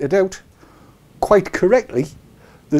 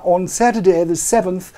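tidy newsreader "Saturday"; BBC English; 3 semitones higher than usual. Shown as a demonstration. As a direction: clear standard English "Saturday". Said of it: "B B C English".

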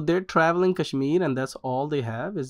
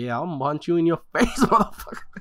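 mock threat; 2 semitones higher than usual. Acted threat breaks into laughter.

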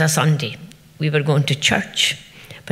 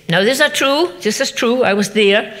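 high and loud, hammering the word true; insistent vouching; 5 semitones higher, 3 dB louder than usual. Retold or imitated. Uncle swearing to Murdo the tale is true, loud insistence. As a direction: swear to it, pressing hard.

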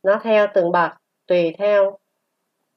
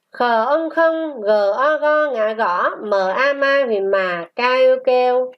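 spelling drill; 3 semitones higher than usual. Shown as a demonstration. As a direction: spell it out syllable by syllable for pupils. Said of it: "Luyện đọc qua từ". (đánh vần chậm, ngân nga)

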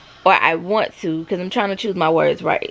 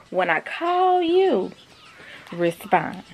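stern scolding; much slower than usual. Real, not acted. Mom scolding someone who ignores her calls, slow and stern. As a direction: lay down the rule word by word.

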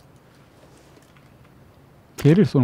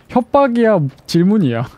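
high, louder playful mock outrage; mock indignant; 7 semitones higher, 3 dB louder than usual. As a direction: teasingly act offended. Joking back at a viewer's question.

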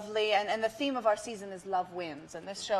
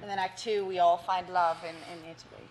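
put-on London accent. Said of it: "we gotta do the whole interview in that".

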